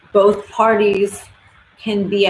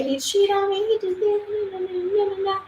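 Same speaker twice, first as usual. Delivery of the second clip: high, softer whiny complaint trailing into nah nah; mock wronged girlfriend; 12 semitones higher, 5 dB quieter than usual. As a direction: imitate a girl listing his faults, pitched up. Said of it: "She's gonna say".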